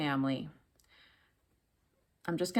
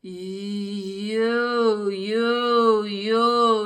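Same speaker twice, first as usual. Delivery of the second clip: full ringing "you" much louder; 2 semitones higher, 7 dB louder, much slower than usual. Shown as a demonstration. Coach demoing full vocal vibration, loud and resonant. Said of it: "So full vocal vibration is".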